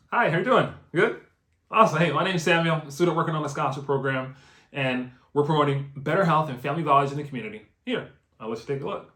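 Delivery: upbeat, lively door-to-door pitch with a bright opening; enthusiastic pitch. Shown as a demonstration. Canvasser greeting a stranger at the door, enthusiastic. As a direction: sell it with energy and a varied voice. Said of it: "So let's say that again. ... make your voice fluctuate".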